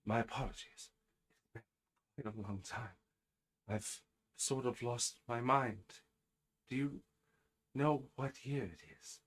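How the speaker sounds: lightly voiced, halting old-time gentleman; apologetic gentleman character. Game master as the long-confined man asking the year, apologetic. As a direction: ask politely, pausing between phrases. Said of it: "looks at you, Miss Kitty, and goes".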